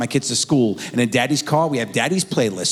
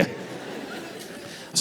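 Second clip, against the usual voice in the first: whispered aside; 14 dB quieter than usual. Real, not acted. Muttered aside.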